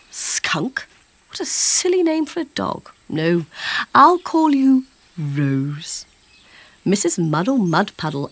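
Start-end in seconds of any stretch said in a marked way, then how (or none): 0.1-6.1 fussy lady. A narrator's reading. Lady naming the skunk.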